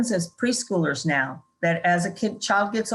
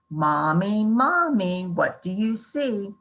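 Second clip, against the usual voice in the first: sing-song reading; 2 semitones higher, slower than usual. Shown as a demonstration. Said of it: "it could be".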